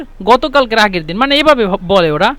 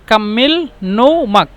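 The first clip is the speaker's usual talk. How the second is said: কাম্মিল নৌমাক drawn out slowly; slow, careful teacher model; slow demo; slower than usual. Shown as a demonstration. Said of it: "আঞ্চলিক ভাষা হলো কাম্মিল নৌমাক".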